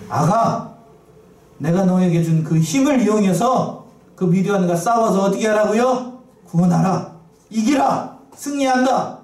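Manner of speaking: put-on a loving father urging his child to win; God comforting his child, then rallying him; tender voice of God.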